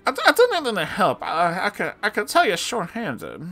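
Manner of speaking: high, halting, nervous falsetto; timid customer voice. Acted. Balding customer timidly refuses help, high and halting. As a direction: stammer it out in a high put-on voice. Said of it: "the customer responded".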